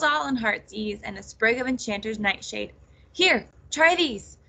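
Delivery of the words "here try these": out of breath, panting words. A narrator's reading. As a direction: gasp it out, winded. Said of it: "she panted".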